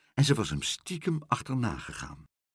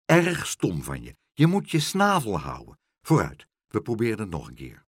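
stern scolding. Acted. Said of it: "zei Pluk streng".

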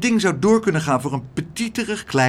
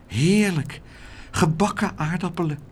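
higher, savouring sigh; sighing with delight; 5 semitones higher than usual. A narrator's reading. Laura unpacks the longed-for fried potatoes, sighing happily. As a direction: linger on it in contentment. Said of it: "zuchtte ze".

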